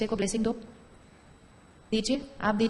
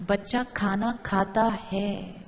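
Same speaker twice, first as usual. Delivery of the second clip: slow, gentle affirmation, every word drawn out; blessing thought; 2 semitones lower, much slower than usual. Shown as a demonstration. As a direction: bless the child as you say it slowly. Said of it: "ये blessing है।".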